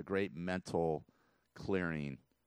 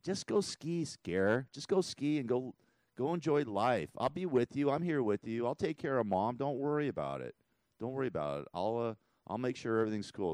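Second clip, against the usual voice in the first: lightly voiced brother, higher and encouraging; a touch of the brother's voice, reassuring; voicing late brother; 5 semitones higher than usual. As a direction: gently give his brother's reassuring words. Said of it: "He's like".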